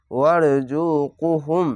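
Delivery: ওয়ারজুকুহুম slow, the long vowel stretched one alif; drawn-out recitation. Shown as a demonstration. Quran teacher modelling a slow, stretched recitation. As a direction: draw out ওয়ারজুকুহুম slowly, syllable by syllable. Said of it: "এক আলিফ টেনে পড়বেন".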